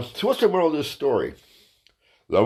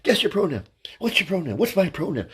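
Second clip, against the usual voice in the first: higher, announcer-style host; game show host; 4 semitones higher than usual. Shown as a demonstration. Comedian pitching a game show, announcer tone. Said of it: "new T V game show".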